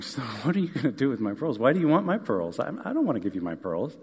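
put-on light, quick little girl protesting; a daughter laughing off the request; lightly voiced girl, quick. Daughter refuses, teasing.

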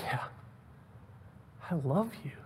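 hushed, after a long pause; intimate reply. Acted. Peter answering Jesus a third time, hushed. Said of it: "this very intimate conversation".

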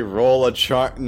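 slow flat mock quote; deadpan quote. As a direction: drag it out mockingly. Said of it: "then you say".

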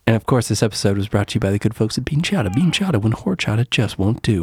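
brisk, practised sponsor tag; tongue-in-cheek ad sign-off; mock sponsor read. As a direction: read it like a podcast ad.

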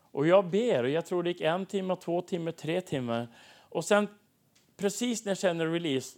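ordinary delivery

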